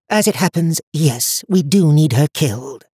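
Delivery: put-on high, cold voice of an old seer; stern old woman. A narrator's reading. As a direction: speak down to him like a haughty elder. High Watcher voiced in story.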